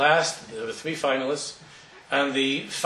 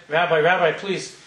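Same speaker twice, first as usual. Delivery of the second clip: raised, higher-pitched call after someone; 4 semitones higher, 7 dB louder than usual. Acted. Young winner running after the rabbi, calling out. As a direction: call out urgently, ending in a high plea.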